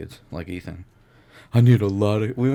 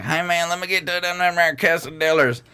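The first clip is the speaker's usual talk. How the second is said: hick voice; 10 semitones higher, 3 dB louder than usual. Retold or imitated. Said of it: "And I was like".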